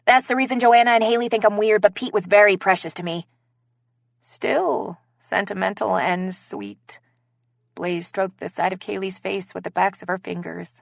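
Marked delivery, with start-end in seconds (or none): 4.2-7.0 tender. Acted. Repeats earlier line tenderly.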